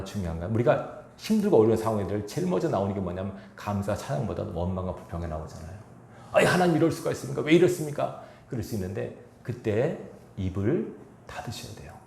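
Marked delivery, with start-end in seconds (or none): 6.3-8.2 원망하는 기도. Retold or imitated. 하나님께 원망하는 말 흉내.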